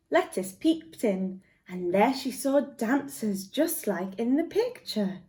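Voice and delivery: gentle storybook read-aloud; lively picture-book reading; reading to children. Acted. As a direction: tell it like a bedtime story to little ones.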